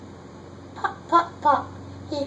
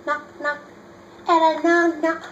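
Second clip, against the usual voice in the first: knock; 3 semitones higher, 4 dB louder than usual. Acted. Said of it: "sound like a hand on the door".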